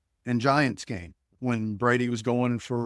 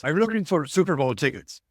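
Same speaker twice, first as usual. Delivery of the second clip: imitated European accent, a little louder than usual; 3 semitones higher, 4 dB louder than usual. Stranger phoning about Super Bowl tickets, imitated European accent. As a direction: put on a caller's European accent. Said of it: "this deep European accent guy".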